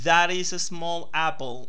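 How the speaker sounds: slow, deliberate English for speech recognition; careful English pronunciation. Shown as a demonstration. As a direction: say "That is a small apple" slowly, each English word clearly sounded. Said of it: "Vamos a la segunda".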